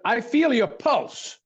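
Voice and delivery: silly voice. Retold or imitated. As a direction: lift the voice up and take it slowly. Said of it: "the silly voice I'm doing".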